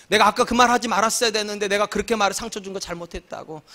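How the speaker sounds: ordinary talk, nothing marked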